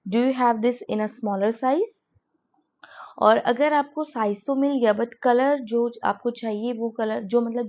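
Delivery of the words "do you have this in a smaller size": slow, clear question read for learners; slow classroom demo; slow model sentence. Shown as a demonstration. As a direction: ask it slowly, word by word. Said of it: "तो आप बोलेंगे".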